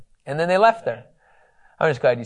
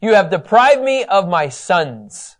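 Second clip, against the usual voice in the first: slow grieving lament; 4 semitones higher, 4 dB louder, slower than usual. Retold or imitated. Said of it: "what he finally says".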